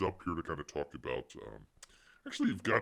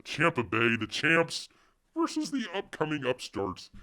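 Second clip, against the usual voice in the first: hype announcer; 9 semitones higher, 7 dB louder than usual. Real, not acted. Hyping the matchup like announcer.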